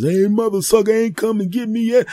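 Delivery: put-on high, loud, cursing old lady; shrill furious ranting old woman; foul-mouthed granny. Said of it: "people on the phones cursing out the nurses".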